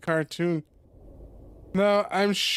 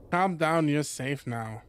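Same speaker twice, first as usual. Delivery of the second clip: reassuring; 3 semitones lower than usual. Acted. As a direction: soothe a shaken friend. Comforting scared friend.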